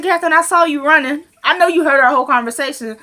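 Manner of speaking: high, knowing retold call-out; imitating a playful accusation; mock accusation.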